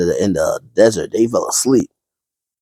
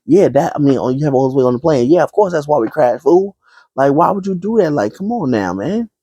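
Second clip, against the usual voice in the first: higher, scolding the pilot; doctor berating the pilot for the weight; mock angry doctor; 5 semitones higher than usual. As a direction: chew him out with mock outrage. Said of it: "the doctor got mad at the pilot".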